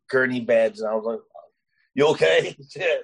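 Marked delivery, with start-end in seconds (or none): 2.0-3.0 raised pitch, breaking into a laugh; laughing mock concern; amused retold concern. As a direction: act out the worried question, then laugh. Jokes about checking injured teammate.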